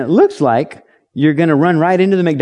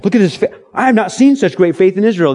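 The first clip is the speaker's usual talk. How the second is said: raised, admiring exclamation at the centurion's faith; Jesus marvelling aloud at the centurion's faith, pitched up; amazed exclaiming; 6 semitones higher, 3 dB louder, faster than usual. Retold or imitated. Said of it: "he says to the centurion".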